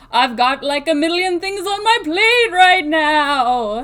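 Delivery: loud spooky ghost voice, stretched long. Recalling reading a book's speech bubbles aloud, in a ghost voice. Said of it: "I did the ghost voice".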